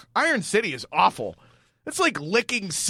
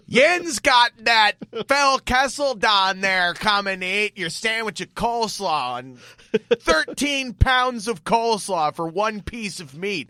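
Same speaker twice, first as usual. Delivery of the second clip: put-on Pittsburgh accent; 4 semitones higher, slower than usual. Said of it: "I can't even do a Pittsburgh accent".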